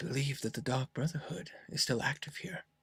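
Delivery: very quiet, secretive whisper, barely audible. A game master voicing a man who leans in close to the player, whispering. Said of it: "he whispers to you".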